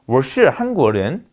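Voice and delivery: slow Mandarin, tongue curled back on "是"; Chinese retroflex example. Shown as a demonstration. Lecturer gives students a second example, slow retroflex "是". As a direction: draw out "我是韩国人", retroflex on "是". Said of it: "이 시 발음은".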